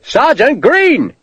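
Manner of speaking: slow, drawn-out loud bellow; officer bellowing for his sergeant. A narrator's reading. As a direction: stretch the name out in a big bellow. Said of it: "Sharp bellowed again".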